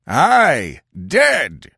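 high mob shout; bloodthirsty high-pitched cry; bloodthirsty assurance. A narrator's reading. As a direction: confirm it as a vengeful crowd. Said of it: "Five hundred bloodthirsty voices assured him".

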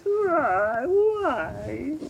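high squeaky nerd whine; whiny nerd asking why; nerdy voice. Shown as a demonstration. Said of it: "you wanna do the Clayton voice".

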